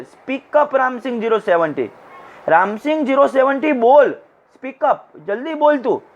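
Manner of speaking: acted questioner pushing for an answer; goading. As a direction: egg him on to speak up. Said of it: "આમ ઉત્સેરે છે".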